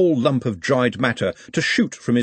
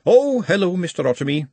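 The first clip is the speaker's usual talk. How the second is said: put-on high, girlish voice, lovestruck; high girlish voice, dreamy; dreamy young girl; 8 semitones higher, 4 dB louder than usual. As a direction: sound like a smitten young shopgirl. Juliet's voice.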